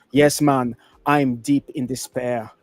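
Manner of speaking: put-on slow punchline in a light Jamaican accent; terrible Jamaican accent. Second Jamaican guy giving punchline, lightly mocked Jamaican accent. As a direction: draw it out in a bad Jamaican accent. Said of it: "that's a terrible accent".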